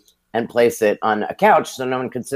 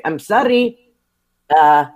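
higher, Brooklyn-Italian broken English; imitating the receptionist; 8 semitones higher than usual. Receptionist telling a caller he is away, Brooklyn-Italian accent. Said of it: "I once heard her say".

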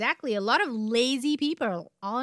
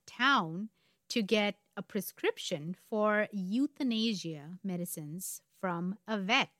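deliberate storyteller with dramatic pauses; story narration; slower than usual. A narrator's reading. Host leading up to the murder, story narration. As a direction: build suspense, setting key words apart.

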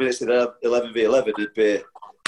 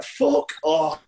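mock whispered retort; 4 semitones higher than usual. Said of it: "I'd be like".

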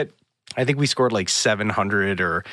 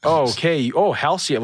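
higher-pitched mocking recognition; making fun; 7 semitones higher, 3 dB louder than usual. Smuggler spotting Halcyon guests, mocking. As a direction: imitate someone teasing fancy guests. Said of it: "the dude was making fun of us".

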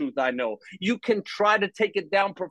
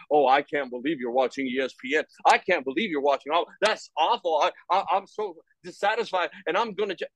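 mock judgmental scold; 3 semitones lower than usual. Mocking a judgmental critic.

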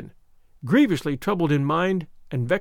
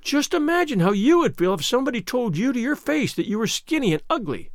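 higher pleading, a hint of tears; tearful pleading; 6 semitones higher than usual. A narrator's reading. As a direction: beg her to understand, mildly tearful. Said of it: "pleaded Anne tearfully".

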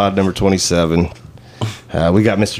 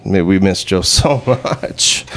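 amused snort; slower than usual. Real, not acted. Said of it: "Did you just snort?".

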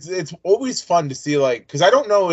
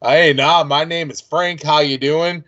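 put-on American accent; slower than usual. Host retells an actor dropping his accent, imitated American. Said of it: "drop his accent and he does the American".

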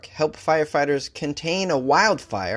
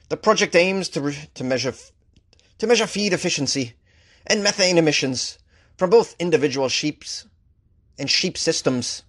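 quoting the geneticist in a mild Scottish lilt; Scottish accent; 2 semitones higher than usual. Retold or imitated. Host quoting the Scottish geneticist, in a faint Scottish accent. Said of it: "Is that a good, uh, Scottish accent?".

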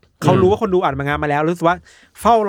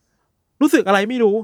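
slow, higher mock voice of the uncle; mock old man; 5 semitones higher than usual. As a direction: drag it out like a quirky old man explaining himself. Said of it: "ลุงคนเนี้ยบอกว่า". (เสียงลุงแกล้งพูดช้าๆ สูงขึ้น)

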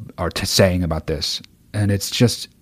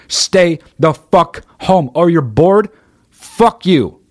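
high, loud, slow furious shout; furious yell; 7 semitones higher, 3 dB louder, much slower than usual. Real, not acted. Yelling at spring breakers who complain they're bored, furious. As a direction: yell it right at them.

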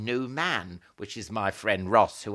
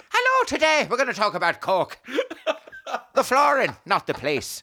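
higher, laughing podcast-host intro; mock podcast host; 13 semitones higher, 4 dB louder than usual. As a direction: open the pretend flooring podcast, giggling. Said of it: "We should do a flooring podcast".

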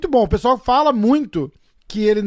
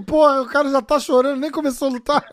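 higher-pitched imitation of a baffled opponent; lightly acted incredulity, pitched up; mock disbelief; 4 semitones higher than usual. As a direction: play the bewildered rival, about to laugh. Acts the baffled opponent, then laughs.

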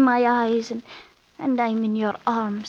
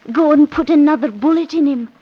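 fierce urging; 6 dB louder than usual. Acted.

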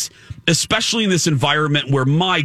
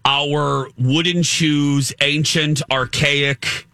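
mocking, drawn-out list; slower than usual. Real, not acted. Repeats mocking list of old laws.

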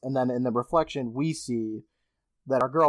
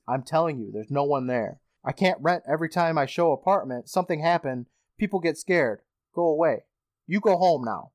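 imitating Tybalt's accent. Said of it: "He probably sounds better than what I just said".

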